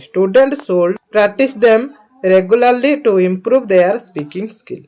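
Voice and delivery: reads English very slowly; slow dictation reading. Acted. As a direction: spell it out slowly for students.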